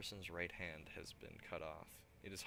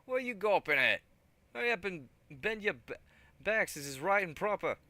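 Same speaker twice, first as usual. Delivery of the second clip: roaring at full volume, much higher; 11 semitones higher, 15 dB louder than usual. Acted. Gang leader roars at gawping crew, loud high roar. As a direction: roar the crew back to work. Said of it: "leader's roar".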